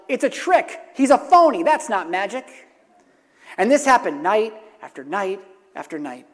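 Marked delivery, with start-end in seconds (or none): 0.1-2.5 a preacher hamming up a parrot crying fraud; squawking parrot yell. Retold or imitated. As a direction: shout it like a heckling parrot. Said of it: "the captain's parrot would yell".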